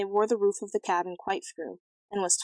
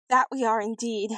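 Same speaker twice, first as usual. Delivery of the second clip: sobbing; 3 semitones higher than usual. Acted.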